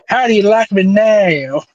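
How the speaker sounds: cocky hammed-up hero brag; mock superhero taunt. Cohost plays Hurricane taunting Spike, cocky mock brag. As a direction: puff up and taunt like a cartoon hero.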